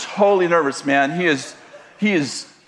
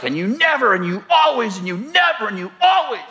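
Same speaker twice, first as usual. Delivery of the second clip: higher, accusing complaint; nagging wife; 4 semitones higher than usual. Retold or imitated. Mocking the wife complaining to her husband, higher and accusing. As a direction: rattle off the accusations, pitched up. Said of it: "she's like".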